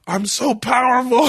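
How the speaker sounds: high, hammed-up wail; mock crying. Imitating his friend crying on the couch, mock-tearful wail. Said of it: "He's crying".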